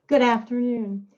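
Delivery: hoarse, worn-out voice; raspy from a morning of touring; raspy whisper. Real, not acted. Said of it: "Excuse my voice".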